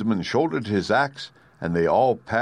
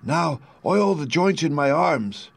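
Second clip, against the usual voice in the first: higher, slow, rusty-sounding tin man; pleading tin man, higher and slow; creaky Tin Woodman; 7 semitones higher, slower than usual. A narrator's reading.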